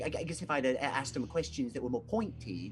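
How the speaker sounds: high, fast, stammering toady voice; nervous Loudmouth. Acted. Nervous sailor rambles to the captain, high and stammering. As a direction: babble it out high and eager to please. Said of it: "Loudmouth answers Whitebeard".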